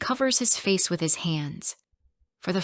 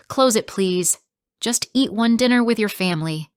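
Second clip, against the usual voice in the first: angry plea; 4 semitones higher, 6 dB louder than usual. Acted. Wife confronts husband at dinner.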